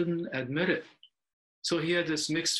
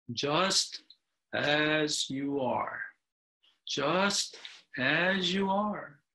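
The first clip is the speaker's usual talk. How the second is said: firm, gentle reassurance; slower than usual. Acted. Owl comforting the crying bluebird, slow and gentle. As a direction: soothe him slowly and firmly. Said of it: "in a firm yet beautiful, clear voice".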